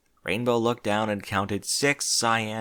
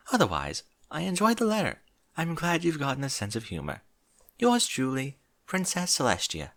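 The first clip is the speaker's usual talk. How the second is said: regal Celestia voice. Acted. Celestia's letter read aloud.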